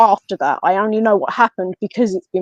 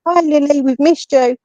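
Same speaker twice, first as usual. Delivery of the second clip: lightly voiced, higher ghostly greeting; imitating ghost voices; 5 semitones higher than usual. Spirits welcoming Lily back to the house, a touch eerie. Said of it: "disembodied voices going".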